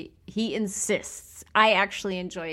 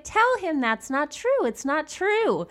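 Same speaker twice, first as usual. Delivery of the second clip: mom; 7 semitones higher than usual. Retold or imitated. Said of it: "she's like".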